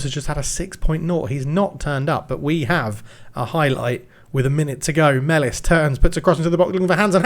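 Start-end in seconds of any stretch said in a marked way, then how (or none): 5.2-7.2 rising to a shouted goal call; excited commentary. Real, not acted. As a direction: build up and yell the goal. Live goal commentary building to shout.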